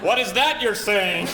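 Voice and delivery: high, slow confused question; baffled. Retold or imitated. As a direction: squint at the driver, lost. Confused reply to driver.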